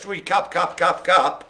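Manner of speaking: mock echo. Host mimics an echo.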